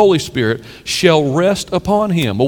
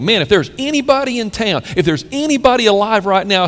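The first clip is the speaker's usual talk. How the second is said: admiring thought; 5 semitones higher than usual. Retold or imitated. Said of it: "you would think".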